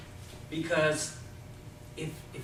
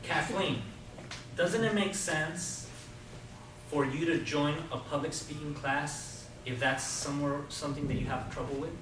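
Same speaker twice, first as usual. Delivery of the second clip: warm and persuasive. Shown as a demonstration. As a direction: draw a yes out of her gently. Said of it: "I wanna illustrate that".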